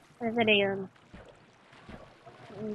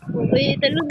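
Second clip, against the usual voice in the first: surprised yelp; 11 semitones higher, 6 dB louder, slower than usual. Real, not acted. Animal jumps away.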